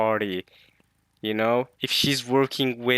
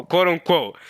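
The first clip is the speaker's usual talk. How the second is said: louder, pointed "quote unquote" full of doubt; sarcastic quote unquote; 4 semitones higher, 4 dB louder than usual. Shown as a demonstration. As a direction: lean on "quote unquote" to signal disbelief.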